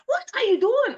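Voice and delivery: very high, loud retold shout; sudden exasperated yell; angry outburst. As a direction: imitate a daughter exploding at mom. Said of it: "more anger is causing it in, in her".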